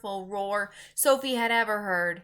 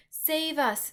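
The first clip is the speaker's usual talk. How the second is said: high, louder giant scream; 7 semitones higher, 5 dB louder than usual. A narrator's reading. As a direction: cry out in terror. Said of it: "screamed the flesh lump eater".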